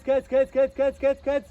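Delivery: loud, high urgent shout of pull. Real, not acted. Director shouting to the child actor to pull, loud and urgent. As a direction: yell it to drive the take on.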